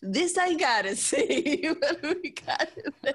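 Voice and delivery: high, incredulous mock disbelief; amused surprise. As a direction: act amazed a cookbook exists. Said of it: "but I was like".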